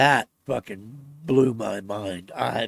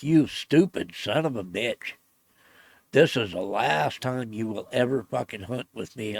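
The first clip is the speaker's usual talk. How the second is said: riot act. Retold or imitated. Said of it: "reading him the fucking riot act".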